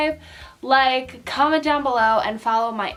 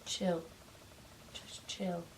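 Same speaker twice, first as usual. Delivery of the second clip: soft soothing; 8 semitones lower, 19 dB quieter, slower than usual. Real, not acted. Soothing restless puppy.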